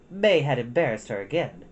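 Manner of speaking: ordinary delivery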